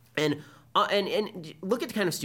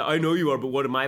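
playground mockery, a touch louder; childish taunt voice; 4 dB louder than usual. Shown as a demonstration. Showing the professor's mocking voice, childish taunt. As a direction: sneer it like a schoolyard comeback. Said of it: "like the ... voice".

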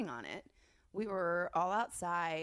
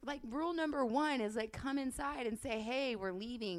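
put-on pitched up, exasperated retelling of a drunk complaint; scolding friend Danny for leaving her behind, pitched up and exasperated; exasperated drunk rant; 5 semitones higher than usual. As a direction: whine it at your friend, half-laughing and fed up.

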